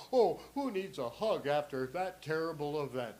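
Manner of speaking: lightly voiced coddling mother; a hint of mock sympathy; coddling mom. Mom consoles kid over spilt milk, mock coddling. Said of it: "your mom would go".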